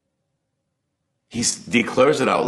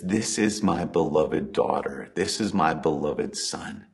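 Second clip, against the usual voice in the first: voice of God the Father; 4 semitones lower, 6 dB quieter than usual. Pretend. The Father speaking over listeners.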